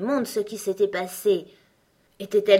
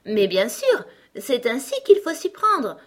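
emphatic and louder, rising high; peremptory; 5 semitones higher, 5 dB louder than usual. A narrator's reading. Queen instructing Alice how to stop crying, peremptory. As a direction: lay it down as beyond question, firmly projected. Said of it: "répondit la reine d'un ton péremptoire".

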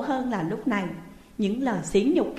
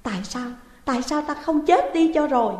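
a touch of higher, louder wailing; despairing wail; crying out; 5 semitones higher, 4 dB louder than usual. Acted. Heartbroken daughter wailing in despair, lightly voiced. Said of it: "sao Dung bỗng khóc to lên".

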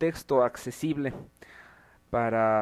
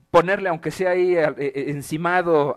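riendo; 6 dB louder than usual. Real, not acted. Laughing suggestion about the meme.

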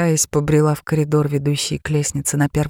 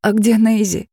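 anxious, higher ask; a touch of alarm; mother anxious about her missing daughter; worried question; 5 semitones higher than usual. Acted. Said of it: "с тревогой в голосе спросила мама".

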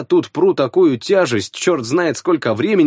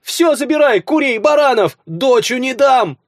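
high, loud desperate pleading; beg, clinging to the daughter; wailing peasant woman; 12 semitones higher, 3 dB louder than usual. Acted. Mother pleads for her daughter.

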